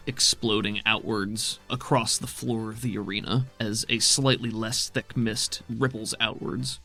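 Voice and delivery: measured scene-setting narration; storyteller voice over the chaos; game master narration. A narrator's reading. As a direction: paint the arena scene for the players.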